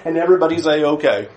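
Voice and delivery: a casual mock of the cosmic teddy bear view; mocking breezy view. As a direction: parody a naive believer. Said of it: "You will often hear these one-dimensional views".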